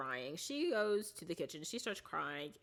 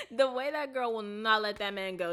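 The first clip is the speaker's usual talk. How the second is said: excited; 4 semitones higher, 6 dB louder than usual. Real, not acted. Still excited after laugh.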